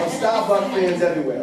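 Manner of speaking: loud reading in a Boston accent. Shown as a demonstration. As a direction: read it out with a thick Boston accent. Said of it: "Can I try to read with a Boston accent".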